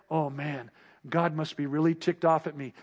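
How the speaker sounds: mock worried thought. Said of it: "thought that comes into your mind".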